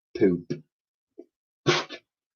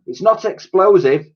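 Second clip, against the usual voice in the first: put-on little girl voice; 9 semitones higher, 4 dB louder than usual.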